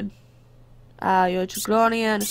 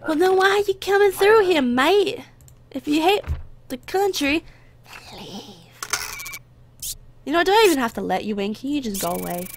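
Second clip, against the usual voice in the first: mock-angry guard scolding a traveller; annoyed guard; 4 semitones higher than usual. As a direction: tell them off, irritated. Guard berating traveller who hates country.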